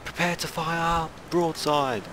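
high, drawn-out battle order; mock naval command. Player as captain ordering the gun crews, high mock command. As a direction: play the captain calling out a broadside.

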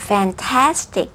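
FANTASTIC spoken slowly, every syllable clear; "fantastic" as a slow teacher's model; over-enunciated. Shown as a demonstration. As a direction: exaggerate the mouth shapes on "fantastic". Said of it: "ขยับปากเว่อร์ๆเลยเนาะ".

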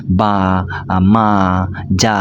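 "বা", "মা", "যা" as separate, level, held syllables; demonstrated babbling syllables. Shown as a demonstration. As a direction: sound out "বা", "মা", "যা" one by one, drawing out each vowel. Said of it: "এটাকে বলা হয় ব্যাবলিং". ("বা", "মা", "যা" আধো বুলির মতো আলাদা করে টেনে বলা)

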